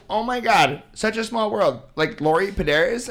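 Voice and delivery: put-on high, gushing girl voice; excited girl voice. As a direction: squeal it like an excited fan. Girl voiced in retold meeting.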